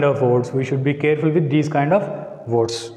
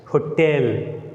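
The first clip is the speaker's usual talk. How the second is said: Hotel with weak ho and strong TEL; stress on TEL. Shown as a demonstration. Teacher explaining an exceptional case, Hotel stressed on its second syllable. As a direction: give extra force to the tel of Hotel. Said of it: "we give extra force to tell".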